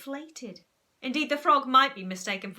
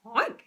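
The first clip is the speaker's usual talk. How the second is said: oinking back; 5 dB louder than usual. Acted. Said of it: "oinked Sir Basil back".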